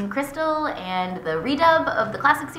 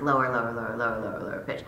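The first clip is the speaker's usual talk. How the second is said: each "lower" dropping deeper and softer; mock producer direction; 6 semitones lower, 6 dB quieter, much faster than usual. Guest retelling producers pushing her pitch down, sinking lower. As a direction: sink the voice a step each time. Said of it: "they pitched her down".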